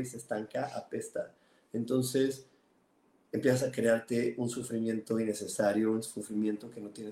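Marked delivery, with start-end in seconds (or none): 0.0-1.3 apesta whispered, much softer; a hushed, disgusted apesta; quiet emphasis. Real, not acted. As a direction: let apesta fall away in a breath. Stagnant water image.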